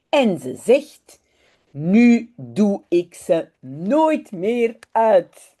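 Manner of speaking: unhurried, expressive read-aloud in Dutch; children's story narration. A narrator's reading. Teacher reading a Dutch story to online learners, storytelling. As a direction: read it slowly and clearly for young learners.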